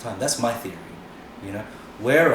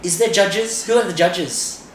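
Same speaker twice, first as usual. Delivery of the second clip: higher, louder, slowed fretful whine; mock nervous Aussie; 7 semitones higher, 6 dB louder than usual. Mocking Aussie dancers fretting before an event, in a high anxious whine. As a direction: play a timid dancer scared of judges. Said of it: "Here, it's like".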